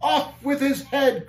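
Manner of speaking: high, drawn-out battle cry; giant's cry. A narrator's reading. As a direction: slowly call for an execution. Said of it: "cried one of the giants".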